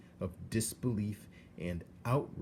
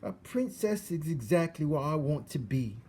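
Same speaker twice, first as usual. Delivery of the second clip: much higher, louder rough voice; eager servant girl; 8 semitones higher, 4 dB louder than usual. Acted. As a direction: declare your dream with rough eagerness. Meg states her dream.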